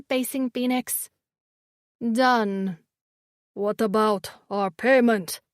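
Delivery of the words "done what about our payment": eerie creature voice. A narrator's reading. Glazer women voiced.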